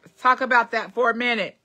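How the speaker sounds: high, loud, slow announcement; announcing a topic. Real, not acted. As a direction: build it up like a headline. Announcing a new news topic.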